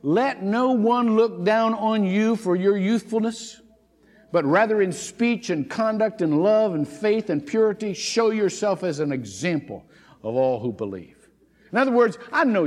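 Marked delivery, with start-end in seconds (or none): 0.0-11.2 Paul's exhortation. Retold or imitated. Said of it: "And Paul said this".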